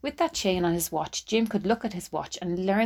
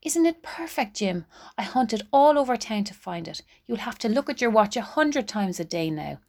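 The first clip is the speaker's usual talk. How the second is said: excited; 4 semitones higher than usual. Acted. Della gives Jim the gift.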